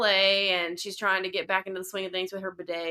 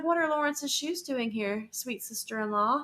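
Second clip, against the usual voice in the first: mock sweet accusation; 4 semitones higher than usual. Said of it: "she's just like".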